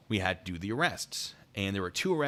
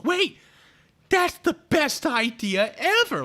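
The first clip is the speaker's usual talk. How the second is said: very high, loud mock shriek; excited outburst; 11 dB louder, slower than usual. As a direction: stretch it out in hammed-up, shrieking delight. Acting out homeowner's delighted outburst.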